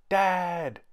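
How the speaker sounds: high, loud call for Dad; child's yell. A narrator's reading. Kipper yelling for Dad, high and loud. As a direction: shout for Dad up the stairs. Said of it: "he yelled".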